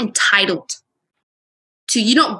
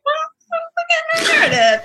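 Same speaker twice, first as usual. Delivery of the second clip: mock pompous author; slower than usual. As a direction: play a proud new author. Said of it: "So we're like".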